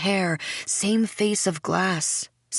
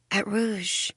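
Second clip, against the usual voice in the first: softly dreamy, falling away; 4 dB quieter than usual. A narrator's reading. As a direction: let it drift out gently. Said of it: "She smiles dreamily".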